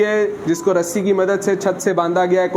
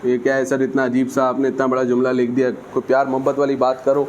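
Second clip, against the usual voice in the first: mock student complaint; 6 semitones lower, faster than usual. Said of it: "मैं समझ रहा हूँ आपके दिल से ऐसी आवाज़ें आ रही हैं".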